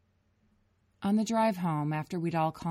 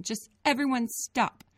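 higher tearful plea; crying plea; 8 semitones higher, 4 dB louder than usual. A narrator's reading. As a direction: beg everyone through tears. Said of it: "Grace cried again".

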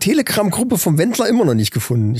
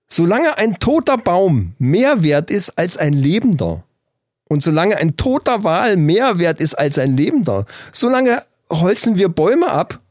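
slow, deliberate quote with swinging stresses; weighty quotation; slower than usual. Retold or imitated. Retelling a shocking quote to co-host, slow and weighty. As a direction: recite it slowly, letting each key word land.

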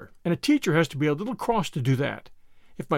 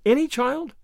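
earnest exclamation; 4 semitones higher than usual. Acted. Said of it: "exclaimed Anne".

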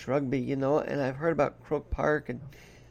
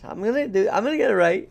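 Irish accent attempt; 6 semitones higher, 7 dB louder than usual. Shown as a demonstration. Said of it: "hold on, I gotta get better at this".

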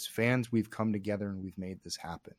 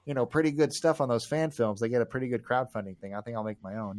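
clueless dude voice; 3 semitones higher, 7 dB louder than usual. Retold or imitated. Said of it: "I'm not just some dude saying, like".

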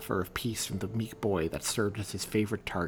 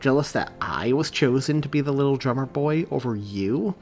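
rising to a louder, higher angry challenge; exasperated demand; 4 semitones higher, 6 dB louder than usual. Acted. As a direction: let the anger build at the bully. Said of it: "rolled his eyes and demanded".

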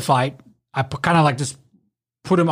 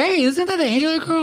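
retold question; 11 semitones higher than usual. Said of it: "he was like".

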